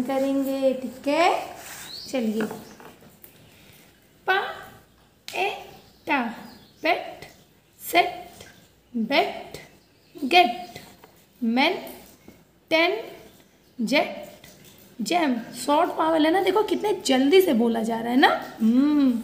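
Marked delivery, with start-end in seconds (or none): 4.3-15.4 reading a word list. Shown as a demonstration. Teacher reading words aloud for pupils to repeat. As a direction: call each word out to the class.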